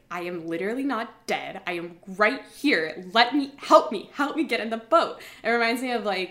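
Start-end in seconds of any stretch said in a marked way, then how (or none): 0.1-5.2 acted frustration rising into loud pleading; mad, exasperated. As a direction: start controlled, build to an insistent demand. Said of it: "he was so mad at her".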